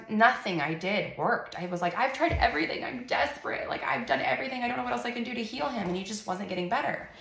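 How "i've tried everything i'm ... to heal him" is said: higher, pleading voice, fast at the end; desperate plea. Retold or imitated. Mother tells friends she's tried everything, higher and desperate. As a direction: beg like you've run out of options.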